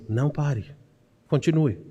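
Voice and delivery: low, softened voice of God encouraging; quiet, steady divine encouragement; God's reassurance. Retold or imitated. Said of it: "E Deus diz pra você".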